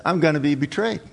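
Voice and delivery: understated calm as Jesus. Acted. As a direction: say it evenly, with mild calm. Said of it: "in a very calm voice".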